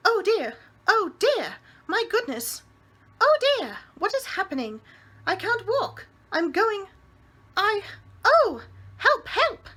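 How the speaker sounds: landlady panicking as she lifts off. A narrator's reading. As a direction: squeal for help as she floats.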